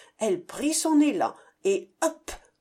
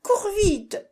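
urgent shout; 10 semitones higher than usual. A narrator's reading. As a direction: yell at the child to run. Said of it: "criait la maman".

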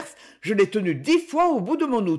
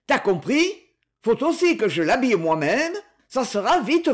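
menacing threat; 5 semitones higher than usual. Acted. Man threatens her.

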